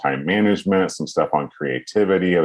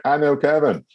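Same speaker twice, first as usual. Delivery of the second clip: mock proud; 10 semitones higher than usual. Retold AV guy, high.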